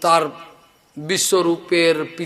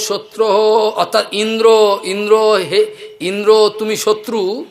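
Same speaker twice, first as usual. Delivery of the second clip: ইন্দ্র said louder and higher, stretched; loud emphatic stress; 4 semitones higher, 3 dB louder than usual. Shown as a demonstration. Teacher demonstrating how stress on ইন্দ্র changes meaning. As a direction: hit ইন্দ্র loud and high. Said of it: "কোনোটা জোরে বলতে হয়".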